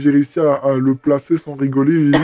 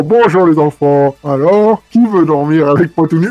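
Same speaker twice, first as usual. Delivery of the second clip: Casimir voice; 4 dB louder than usual. Acted. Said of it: "j'ai vraiment pris la voix de Casimir".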